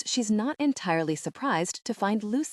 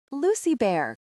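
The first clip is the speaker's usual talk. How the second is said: cries out; 5 semitones higher than usual. Acted. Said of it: "cries Ravi".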